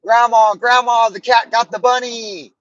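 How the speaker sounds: put-on high, loud, panicked child's cry; little brother shouting for Grandma; brother as a little kid. Little brother calling Grandma about the cat. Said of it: "my brother's like".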